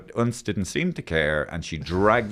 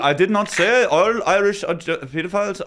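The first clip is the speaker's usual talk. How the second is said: mock defensive; 8 semitones higher, 3 dB louder than usual. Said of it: "then he'd be going".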